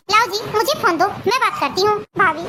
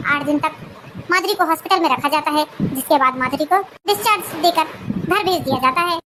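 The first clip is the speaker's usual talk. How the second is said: lower, even narrator voice; story narration; 4 semitones lower than usual. A narrator's reading. Narrator recounting the surgery and discharge, lower and even. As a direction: tell the next events calmly.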